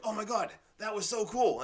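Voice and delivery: thrilled over a tiny thing; gushing delight. Retold or imitated. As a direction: play it like a kid spotting something cool. Acting out delight at small things.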